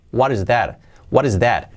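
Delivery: "what is" joined with a quick flap; T as soft R. Shown as a demonstration. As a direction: tap the T of "what" softly like an R. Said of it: "la T como una R suave".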